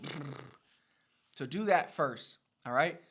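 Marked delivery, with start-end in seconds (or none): 0.0-0.3 lip trill. Shown as a demonstration. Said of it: "like people do that when they're cold".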